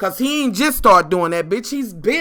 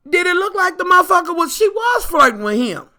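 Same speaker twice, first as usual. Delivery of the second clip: raised questioning shout; 8 semitones higher than usual. Real, not acted. Demanding answer from male viewers.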